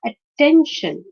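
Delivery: "attention" said as at-TEN-tion; second-syllable stress. Shown as a demonstration. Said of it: "stress is on the second syllable".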